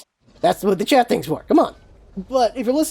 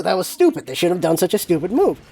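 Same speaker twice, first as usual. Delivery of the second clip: blunt; 3 semitones lower than usual. Shown as a demonstration. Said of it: "I'll say it like that".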